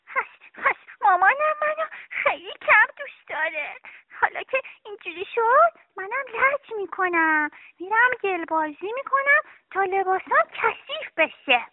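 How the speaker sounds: put-on a child's hurt voice with a catch of tears, turning stubborn; sad, tearful sulk. Little Sara to herself, hurt and sulking. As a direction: sulk through a near-sob, then pout it out. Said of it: "سارا غمگین شد. با خودش گفت".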